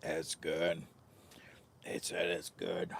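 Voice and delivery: hushed whisper. Real, not acted. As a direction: whisper it to yourself. Quiet whispered remark.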